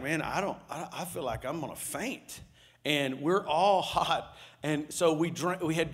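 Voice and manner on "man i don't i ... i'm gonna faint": much softer, fading like about to faint; faint, weak voice. Retold or imitated. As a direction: let the voice drain away from the heat. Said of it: "Janae's like".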